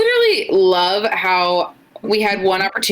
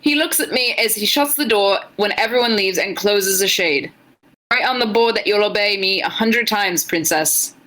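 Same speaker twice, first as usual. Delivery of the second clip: loose British-leaning stab at Irish; attempted Irish accent; 3 semitones higher than usual. Reading fanfic aloud for the chat, attempted Irish accent. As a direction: read it in a half-successful Irish accent. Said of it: "that was kind of Irish".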